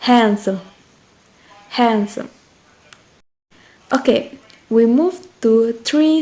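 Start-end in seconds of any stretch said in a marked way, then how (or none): 0.0-2.3 "Handsome" with HAND stressed; stress on first syllable. Shown as a demonstration. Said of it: "the same as the first example".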